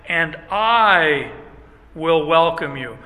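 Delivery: loud, weighty promise of welcome; emphatic promise. Acted. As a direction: proclaim it with full emphasis. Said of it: "there's an emphatic".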